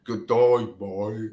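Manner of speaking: a badly faked Australian accent, barely shifted. Co-host tries an Aussie greeting on air, badly faked Australian accent. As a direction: toss off a weak stab at an Aussie greeting. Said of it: "what kind of accent was that?".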